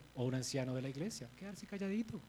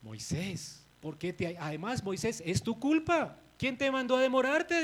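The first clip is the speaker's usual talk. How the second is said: Aaron blaming; 5 semitones higher, 4 dB louder than usual. Retold or imitated. Aaron blaming Moses, voiced.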